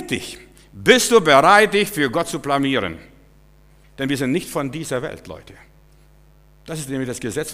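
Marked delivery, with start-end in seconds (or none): 0.7-3.0 loud challenge. Acted. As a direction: call out bereit, hitting du hard. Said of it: "preacher challenges the congregation".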